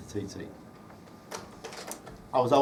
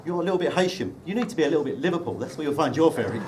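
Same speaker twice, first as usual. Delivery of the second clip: sarky Scouser; faster than usual. Retold or imitated. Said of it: "says the sarky Scouser".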